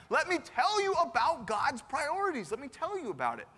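preacherly voiced reprimand; emphatic rebuke. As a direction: lay down the law, stretching the words. Acts Jesus rebuking Peter.

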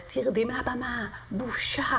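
the teacher ordering her off the stage, a slow mock scold; imitating angry teacher. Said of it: "המורה שלי אומרת".

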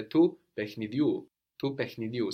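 pechnidiu with final U stressed; accent on the end. Shown as a demonstration. Teacher confirms to learner, final u stressed in pechnidiu. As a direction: land on the last u of pechnidiu. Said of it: "takes the accent on the end".

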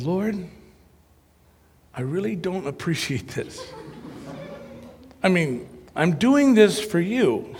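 complaining to God, a touch of mock grievance; kvetching prayer. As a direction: whine your grievances to the Lord, half-joking. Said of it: "I started kvetching a prayer".

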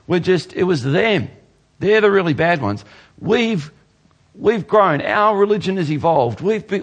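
mock the excuse-makers, half-hearted; a hint of a petulant crowd; people shifting blame. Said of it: "and the people are saying".

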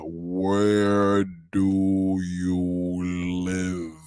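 each word dragged out absurdly long; exaggerated slow-motion question; extremely slow. Real, not acted. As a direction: say it as slowly as possible, as if to someone dense. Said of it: "Let me say it a slower".

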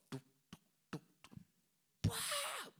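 soft clicking tuk sounds, then a sudden high bah; quivering lip sounds. Retold or imitated. Imitating the inmate's trembling lips, soft tuk clicks into a high bah. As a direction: mimic trembling lips before a sob. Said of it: "hennes underläppar".

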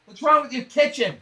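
hammed-up disgusted in-law; mock appalled in-law. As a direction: gasp at the kitchen in mock shock. Mocking a judgmental mother-in-law.

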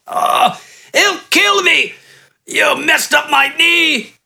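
high, slow, yelping in pain; pained, scared bandit. A narrator's reading. Kneecapped bandit fearing his boss, high pained yelp. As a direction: cry out in fear and hurt, high and slow.

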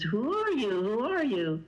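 mildly acted urgency, voice lifting; urgent retold questioning. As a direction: press an unknown caller for a name. Mother questions upset caller in retold call.

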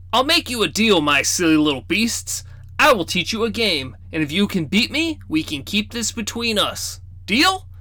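a grandpa striking a playful deal; sly grandfather. Acted. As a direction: tempt the kids with a bargain.

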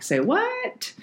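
sudden high squeak of disbelief; incredulous. Retold or imitated. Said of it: "we're like".

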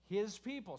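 "His" hit firmly in "His people"; emphasis on HIS. Real, not acted. Preacher answering what the verse says, stressing "His". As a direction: land hard on "His", then let "people" follow. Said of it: "twice in one sentence it says his people".

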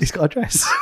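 chuckling through the pun; giggly proud repeat; laughing. Real, not acted. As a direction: laugh as you repeat your own joke.

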